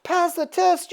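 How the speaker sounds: high, questioning echo; hammed-up disbelief, rising at the end; mock indignation. Death answering Apocalypse's praise, mock-incredulous.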